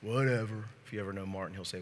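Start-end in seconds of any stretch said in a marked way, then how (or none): 0.0-0.7 dismissive whatever. Retold or imitated. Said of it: "like Martin would".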